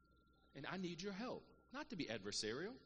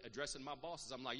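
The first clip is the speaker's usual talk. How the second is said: ordinary delivery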